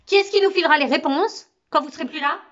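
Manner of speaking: Camo's rising anguish at losing his teacher; anguished outburst. Acted. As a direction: panic climbing into a cry. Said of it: "Une telle angoisse dans la voix de Camo".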